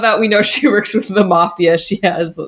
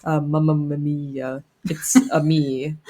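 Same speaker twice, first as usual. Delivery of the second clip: mock Italian accent; 3 semitones lower, 4 dB quieter than usual. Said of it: "like, an Italian accent".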